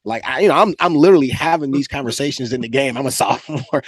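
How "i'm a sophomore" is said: a laugh breaking into the word; laughing aside; laughing through it. Real, not acted. Repeating his age in disbelief.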